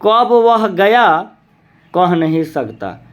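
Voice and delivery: कब वह गया said slowly, then a pause before कह नहीं सकता; pause at the comma. Shown as a demonstration. Teacher reading an example sentence to show the comma pause. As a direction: draw out कब वह गया and stop at the comma. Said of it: "जैसे".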